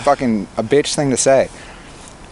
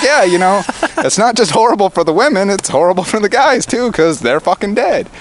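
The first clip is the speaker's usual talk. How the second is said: louder, higher insistence, retelling a debate; retold heated arguing; 8 semitones higher, 5 dB louder than usual. Man re-arguing with a girlfriend about the guys, heated. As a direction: press the point as if re-arguing it.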